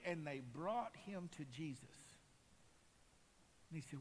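normal talking voice

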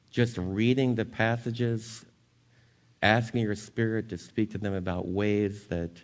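earnest pastoral prayer voice, rising at the start; closing prayer. Acted. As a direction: pray sincerely for the congregation.

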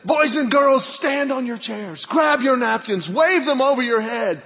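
put-on rally the kids like a show host; hint of announcer. Disney host to boys and girls, mild announcer hype. Breakfast announcer rousing the children.

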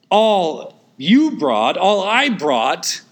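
slow quoted words. Retold or imitated. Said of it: "as Edwards once said".

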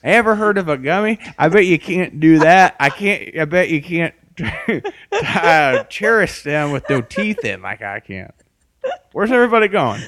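high, loud gummy crone voice; toothless old lady. Pretend. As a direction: boast like a toothless old hag. Toothless Esther boasting.

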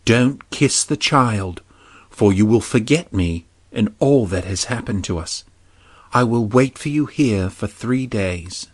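lightly voiced princess, gentle; a hint of a young princess pleading. Heroine's parting words in story.

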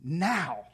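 Now. said alone, firm and weighted; emphatic now. Shown as a demonstration. Preacher stressing the Hebrew word, weighted Now. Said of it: "It's in the emphatic position".

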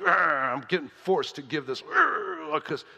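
hammed-up reluctant groaning; grudging giver. Congregant forced to give at the offering, grudgingly. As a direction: growl and grumble through it grudgingly. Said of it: "That's grudgingly, right?".

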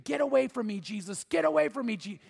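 mild imitation of a screaming boy; urgent, restrained pleading; mock scream. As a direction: retell a terrified cry, held well short of screaming. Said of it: "then he starts screaming".

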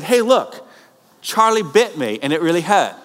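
high, eager call to a friend; excited sharing. Retold or imitated. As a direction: show off a funny clip with a bright, keen voice. Excited viral video share.

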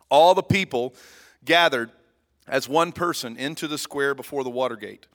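emphatic read-aloud of Bible verses, spaced phrases; measured public reading with punched key phrases; scripture reading. Real, not acted. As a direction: read the passage out to a congregation.

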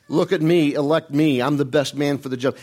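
mock self-promotion; mock arrogance. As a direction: brag lightly, as if campaigning. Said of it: "none of that kind of stuff".

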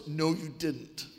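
slow, deadpan retold comeback; unamused retort. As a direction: deflate the boast, slowly and drily.

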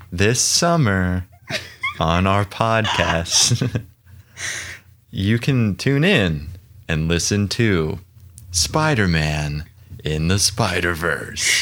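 slow, lightly dramatic trailer announcer; movie trailer voice. Pretend. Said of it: "I'll give it a try".

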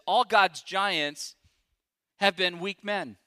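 very slow, each word weighed; slow weighty quote. Retold or imitated. Preacher slowly quoting Hudson Taylor to the congregation. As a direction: drag it out, deliberately.

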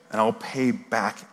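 hushed, subdued begging. A narrator's reading. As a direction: softly read plea. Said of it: "he begged".

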